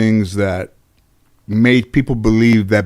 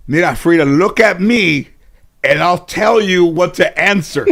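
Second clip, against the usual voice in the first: a hint of grandma, higher and a little louder, with a laugh; coaching grandmother; 7 semitones higher, 4 dB louder than usual. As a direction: lightly voice grandma whispering the answer to Frida. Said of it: "My grandmother said".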